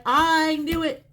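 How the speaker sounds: mom's voice. Retold or imitated. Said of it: "Your mom is like".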